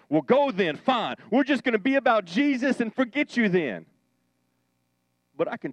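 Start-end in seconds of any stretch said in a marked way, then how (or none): 0.1-3.9 lightly higher, dismissive brush-off; mock bravado. Brave preacher waves off the departing crowd, mock bold. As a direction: play it brave and breezy. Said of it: "I'd be a brave big boy and say".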